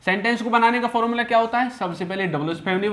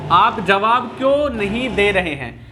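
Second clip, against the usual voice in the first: slow, deliberate reading aloud; measured teacher's dictation; slow example sentence; 3 dB louder, slower than usual. Shown as a demonstration. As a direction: read it out word by word for the class. Teacher reads example slowly, then repeats.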